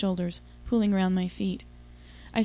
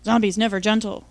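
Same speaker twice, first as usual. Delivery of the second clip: lightly voiced grunting zombie, a bit louder; 4 dB louder than usual. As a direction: grunt it like a hammy movie zombie. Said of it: "he grunted".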